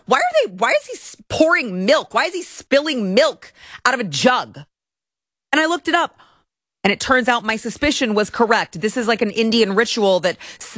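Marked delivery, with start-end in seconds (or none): 0.1-4.6 rising, baffled questions to herself; asking herself why he pours milk, puzzled; puzzled wondering. Retold or imitated. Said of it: "And I thought".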